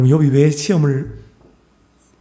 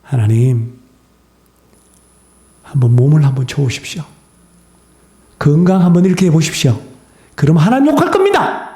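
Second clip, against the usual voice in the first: Satan goading God. Acted. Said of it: "사탄이 또 말합니다".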